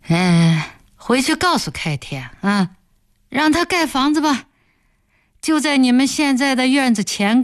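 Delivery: a lightly voiced boss, sure of his power; smug village boss. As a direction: speak like a man who decides everything alone. (得意的村干部口吻)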